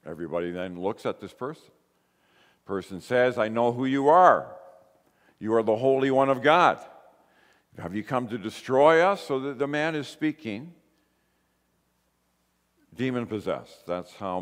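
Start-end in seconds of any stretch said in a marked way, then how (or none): 3.4-9.2 retold yelling out, a bit louder; mildly raised yell. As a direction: imitate a man interrupting with a mild yell. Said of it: "he yells out in the middle".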